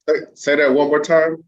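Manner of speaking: a loud, delighted say that again; amazed request. Real, not acted. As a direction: demand it again, thrilled. Host asks to hear it again.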